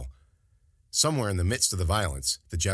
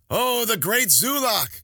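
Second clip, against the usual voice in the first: high, loud, drawn-out mock praise; laughing mockery; 5 dB louder, slower than usual. A narrator's reading. General teasing his bitten warrior friend, laughing mockery. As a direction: crow it slowly, hugely amused. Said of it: "still laughing".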